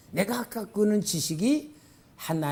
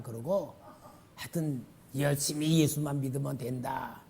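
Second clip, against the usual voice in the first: ordinary talk, nothing marked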